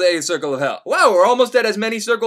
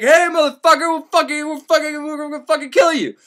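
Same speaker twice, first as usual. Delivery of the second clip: menacing demons; 8 semitones higher than usual. Retold or imitated. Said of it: "they're like".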